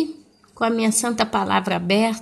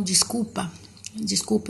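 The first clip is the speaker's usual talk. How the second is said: quiet apology between sips of tea; sipping tea, murmuring sorry; sipping hot tea; 6 dB quieter than usual. Real, not acted. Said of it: "eu tô tomando um chá quentinho aqui".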